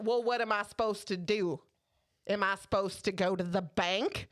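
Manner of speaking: lightly imitated Southern customer; puzzled questions in mild mock Southern; Southern accent. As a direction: play the helpless Southern lady. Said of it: "I did the accent".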